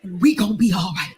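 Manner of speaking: hammed-up reassurance of a strong black woman; comforting strong woman. Jasmine coddling Crystal about the donuts, mock soothing. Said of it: "And I was like".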